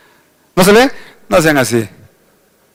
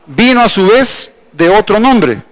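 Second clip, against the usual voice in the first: ordinary talk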